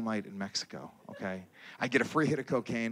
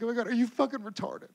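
put-on much higher, shrill upset girlfriend; 9 semitones higher than usual. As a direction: throw it at him as the shocked girlfriend. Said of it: "She's like".

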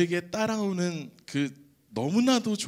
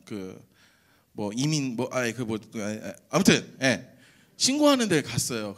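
ordinary talk, nothing marked

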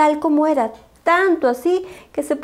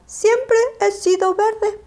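put-on higher, childlike puppy voice; a little dog answering simply; Willy voice; 8 semitones higher than usual.

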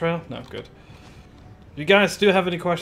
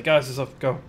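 playful announcer rising to a squeal on thing; mock excited announcement; 4 dB louder than usual. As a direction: hype the players up more and more. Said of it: "we'll just say".

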